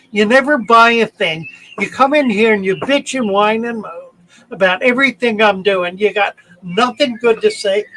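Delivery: angry telling-off. Retold or imitated. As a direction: tell him off for good, fed up. Telling off a complaining customer.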